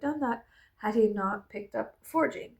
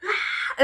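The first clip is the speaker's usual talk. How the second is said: mock angry cry; 8 semitones higher, 4 dB louder than usual. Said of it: "when I cry, I get angry".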